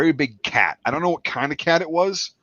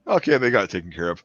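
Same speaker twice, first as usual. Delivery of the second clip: lower, offhand reassurance; acted nonchalance; 6 semitones lower than usual. Soldier deciding others handled the cat, mock nonchalance. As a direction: settle down, case closed. Acting relief, dismissing danger.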